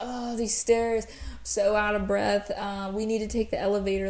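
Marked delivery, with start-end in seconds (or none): none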